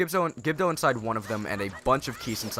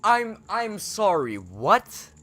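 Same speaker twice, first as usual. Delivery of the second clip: stunned disbelief; 9 semitones higher, 4 dB louder, much slower than usual. Real, not acted. Shield burns up unexpectedly.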